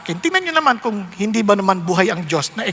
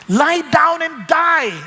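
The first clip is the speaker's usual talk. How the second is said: slow, higher voice of a tempter; mock evil whisperer; 6 semitones higher, much slower than usual. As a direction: drag it out like a sly evil advisor. (mabagal na boses ng masamang tagapayo)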